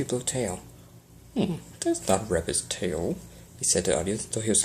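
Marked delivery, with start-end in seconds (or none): 1.3-3.2 slow mock-puzzled showman voice; stage magician. A narrator's reading. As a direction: ham it up for the crowd. Magician playing to the audience.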